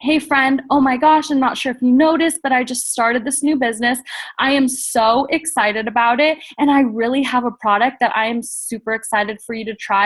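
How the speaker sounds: upbeat, friendly pitch to a friend; demo sales pitch to a friend. Shown as a demonstration. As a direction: sound excited and chatty. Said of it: "You're gonna call her".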